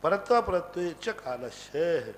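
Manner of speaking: measured scriptural chant, each word given weight; slow sutra recitation. Shown as a demonstration. Teacher recites the sutra to students, slow and measured. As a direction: recite the Sanskrit sutra slowly and evenly.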